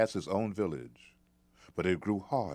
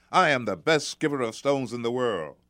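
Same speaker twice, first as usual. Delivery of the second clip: put-on boastful boy; 5 semitones higher, 7 dB louder than usual. Boy boasting after his throw.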